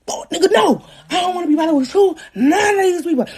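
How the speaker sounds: high, teary whine of protest; whiny crying refusal. Retold or imitated. Retold refusal to baby daddy.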